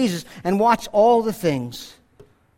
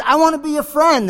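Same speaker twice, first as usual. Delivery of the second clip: higher, lightly voiced boy; boy calling out; 6 semitones higher than usual. Boy making peace with the voice, higher call. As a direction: call kindly into the cave. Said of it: "he ran back and he says".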